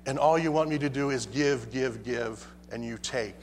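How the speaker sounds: fading complaint. Acted. God's complaint trailing off.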